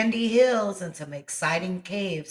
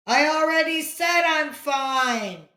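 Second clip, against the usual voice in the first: higher, louder exasperated yell; annoyed scream; 10 semitones higher, 4 dB louder than usual. A narrator's reading. Boy yelling at the echo, exasperated scream. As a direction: yell it, fed up. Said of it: "Johnny screamed".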